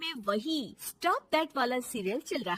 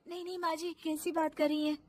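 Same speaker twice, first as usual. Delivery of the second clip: meek daughter-in-law; 5 semitones higher, faster than usual. Acted. Daughter-in-law backs down when challenged.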